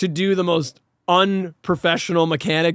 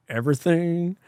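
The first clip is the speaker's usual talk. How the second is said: mock serene; 4 dB quieter than usual. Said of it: "this calm, serene music".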